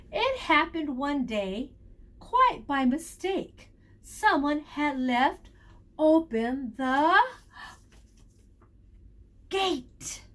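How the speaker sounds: put-on slow, expressive read-aloud for kids; teacher reading to children; storybook reading. A narrator's reading. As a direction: read it like a picture book to little ones. Teacher reads picture book aloud.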